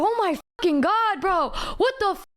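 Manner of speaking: appalled, can't believe this is happening; mock-aghast reaction; exasperated disbelief. Retold reaction to friend's cursing.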